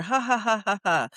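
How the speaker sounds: spoken-out ha-ha laugh, starting up and falling; demonstrated laugh. Shown as a demonstration. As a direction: sound out a light demonstration laugh. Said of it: "So it's up here".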